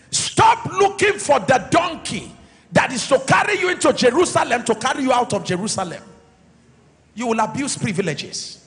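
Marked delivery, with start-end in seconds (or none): 0.1-6.0 raised preacher's command; emphatic exhortation. Real, not acted. Pastor telling church to stop seeking the donkey, emphatic exhortation. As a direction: press the warning on the congregation.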